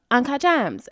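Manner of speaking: lightly mimicked catchphrase with odd vowels; hint of a mocked celebrity pronunciation; playful imitation of a viral line; Julia Fox impression. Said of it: "and her saying fucking".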